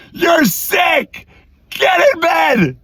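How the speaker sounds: angry order. Retold or imitated. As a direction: lay down the law. Dad orders sick son.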